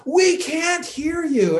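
high, slow mock yell from the balcony; retold crowd yell. Audience heckler yelling up from the fourth balcony, a mild mock yell. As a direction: stretch it out like a heckler far away. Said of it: "And people are yelling".

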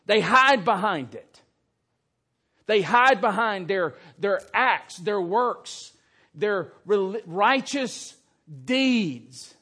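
loud, driving denunciation; fiery preaching against hypocrisy; loud rebuke. Acted. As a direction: hammer it home from the pulpit.

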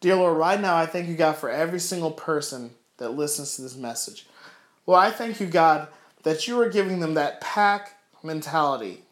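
heartfelt prayer, gradually hushing; earnest prayer. Real, not acted. Preacher praying to God for his listeners, earnest prayer.

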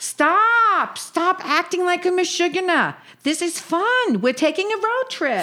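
put-on high, bossy old Jewish aunt; yiddish accent. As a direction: cut her off, yenta style. Sadie calms Sophie.

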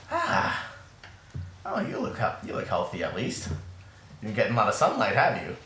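a hint of an elderly mentor; old halfling woman. Old mentor looking over her pupil, lightly voiced old woman. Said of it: "this old halfling woman".

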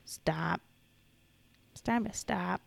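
breathy whispered plea. Real, not acted. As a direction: whisper it, fed up. Fed up with jokes.

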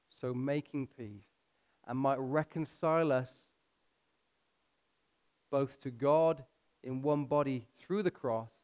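slow, measured reading with long pauses. Real, not acted. Preacher reading Ephesians to the congregation, slowly and measured. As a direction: read scripture slowly, letting it sink in. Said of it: "I'm gonna read it slow".

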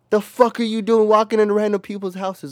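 high, loud incredulous telling-off; mock-outraged, pitched well up; retold scolding. Telling off friend walking into random houses, incredulous.

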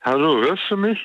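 stuffy, nasal voice; blocked nose. Real, not acted. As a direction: speak as if your nose is blocked. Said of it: "du klingst verschnupft". (verschnupfte Stimme)

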